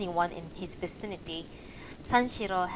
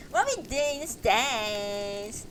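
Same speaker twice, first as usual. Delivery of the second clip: laughing through the line; 3 semitones higher, slower than usual. Shown as a demonstration. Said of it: "I sound like a fucking valley girl".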